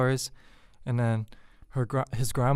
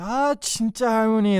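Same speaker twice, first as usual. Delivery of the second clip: fast, high, excited mock exclaim; 8 semitones higher, much faster than usual. Imitating the boyfriend teasing grandma, fast and high. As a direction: rattle it off high and quick. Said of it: "And he's like".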